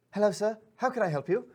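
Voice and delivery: a polite little servant pixie greeting; eager pixie. Acted. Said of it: "he's like".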